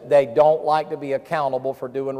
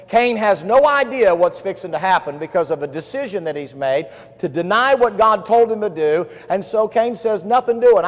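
raised, emphatic preacher's delivery; forceful preaching; 4 semitones higher, 5 dB louder than usual. Real, not acted. Preacher telling Cain and Abel to the congregation, forceful. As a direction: press it home to the congregation.

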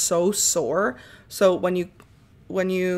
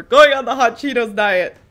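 excited announcement; 3 semitones higher, 8 dB louder than usual. Real, not acted. Announcing the silly egg goal.

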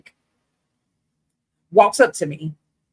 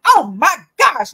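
surprised; 9 semitones higher, 7 dB louder, slower than usual. Retold or imitated. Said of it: "what he said next floored me".

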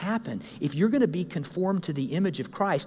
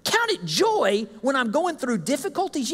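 incredulous what; 7 semitones higher than usual. Retold or imitated. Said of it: "You go".

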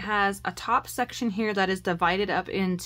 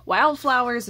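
much higher, gushing over wildflower paper; excited gush; 7 semitones higher, 3 dB louder than usual. Retold or imitated. Telling her daughter what she wanted, a high excited gush. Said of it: "And I was like".

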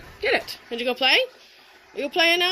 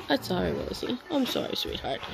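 tender apology; 3 semitones higher, 5 dB quieter than usual. Real, not acted. Soothing the dog.

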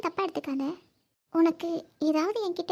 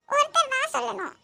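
put-on child voice; 5 semitones higher than usual. Voicing child.

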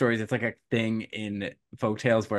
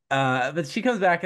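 normal talking voice

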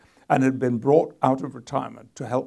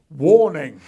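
mock warning sign; 4 semitones higher, 12 dB louder than usual. Reading a comic warning sign.

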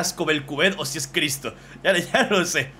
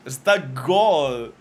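slow excited praise; 6 dB louder, much slower than usual. Real, not acted. Praises drawing.

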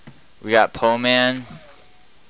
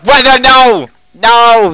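mock panicked yell; 16 dB louder, slower than usual. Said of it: "he's like".

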